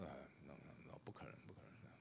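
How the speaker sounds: breathless whisper, as if afraid to be overheard; a low whispered refusal, almost swallowed; hushed whisper. Retold or imitated. Inner voice refusing to apologize. (压低声音的耳语)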